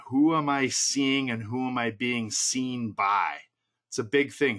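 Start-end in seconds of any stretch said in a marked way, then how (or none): 0.1-3.4 slow and deliberate, word by word, for notes; slow dictation pace. Shown as a demonstration. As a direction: read it out so they can write it down. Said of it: "Write this down".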